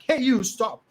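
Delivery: sharp loud shout to break up a fight; shouting stop. Acted. Man yelling at kids fighting over chocolate. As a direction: bark it at the squabbling kids.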